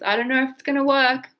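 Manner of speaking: unsure shrug, fast; shrugging doubt. Shown as a demonstration. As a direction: toss it off with a shrug. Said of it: "And shrug your shoulders".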